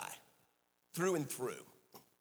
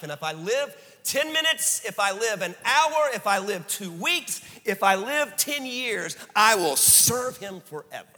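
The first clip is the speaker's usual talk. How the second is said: fervent vow; 6 semitones higher, 4 dB louder than usual. Retold or imitated. Dying man's testimony.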